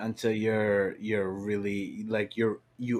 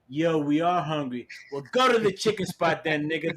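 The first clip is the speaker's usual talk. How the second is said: acted hungry partygoers; 5 semitones higher than usual. Acts out hungry drunk partygoers.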